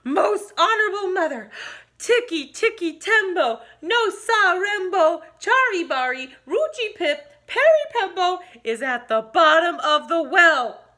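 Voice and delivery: put-on high, slow, careful little boy; very slowly. Chang saying the long name slowly and carefully to his mother. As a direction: spell each part out slowly. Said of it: "very slowly said".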